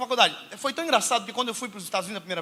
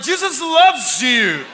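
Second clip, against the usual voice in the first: loud, very slow, higher and laughing, half shouted; blurted while fleeing; 5 semitones higher, 9 dB louder, much slower than usual. Retold or imitated. Preacher retelling how he blurted to the woman and ran: a loud laughing half shout. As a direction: blurt it out and bolt. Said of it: "Mas falei vazando".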